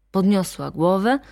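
plain reading voice

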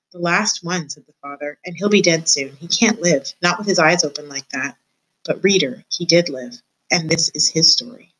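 measured read-aloud voice for a class; story narration. A narrator's reading. Teacher reading a chapter aloud to her class, storybook narration.

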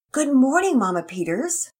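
put-on high, loud child's good morning; child greeting mother, high and bright.

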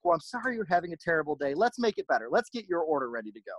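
imitating a coworker's snarky sweetness; snarky kindness. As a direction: kill them with mock kindness. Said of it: "very kill 'em with kindness, but we're also pretty snarky".

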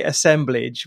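English pronunciation of "assemblage"; very English accent. Shown as a demonstration. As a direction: say "assemblage" the English way, ending like "-blidge". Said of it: "say this in a very English accent".

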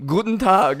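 lightly mock German accent. Bearing a joke testimony at church, German accent. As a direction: greet in a comic German accent. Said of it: "bear my testimony in German".

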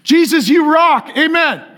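a small son's excited bedtime prayer; kid's prayer. Retold or imitated. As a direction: pray it like an eager little boy. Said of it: "They're like".

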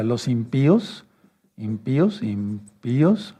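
"impíos" slowed, the í stressed and held apart from the o; slow teacherly "im-pí-os", accent on the í. Shown as a demonstration. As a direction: break the diphthong in "impíos", leaning on the í. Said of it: "poniendo el acento en la I".

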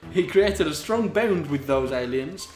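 steady read-aloud delivery; story narration. A narrator's reading. Reader telling of Snape's bond with aliens, steady narration. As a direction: narrate the tale evenly.

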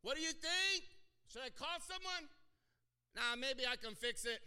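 hammed-up roadside exchange; nagging wife and husband. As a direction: play the worried couple at the car. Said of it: "you lean out the window".

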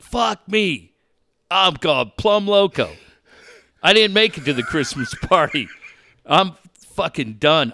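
hammed-up crazy-man lament; mock despair. Telling Dave he thought he'd lost it, hammed-up lament.

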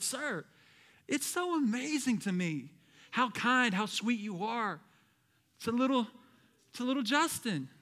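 soft, admiring imitation of a cashier; tender, hushed admiration; impressed cashier. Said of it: "she was so impressed".

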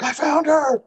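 high and loud, bursting with news; imitating the wife's thrilled announcement; excited. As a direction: blurt it out, thrilled. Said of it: "And she's like".

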